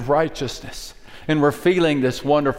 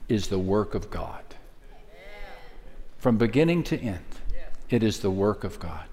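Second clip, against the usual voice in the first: hushed emphasis; 5 semitones lower, 7 dB quieter than usual. Real, not acted. Solemn quiet emphasis.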